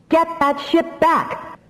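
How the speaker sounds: desperate cry. A narrator's reading. Rowan straining to hold the ship, crying out desperately. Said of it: "the Rowan cried".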